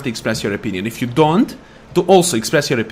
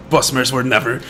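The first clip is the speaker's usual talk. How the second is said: mocking jab; 4 dB louder than usual. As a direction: sneer at the elf's archery. Mocking a Bosmer enemy.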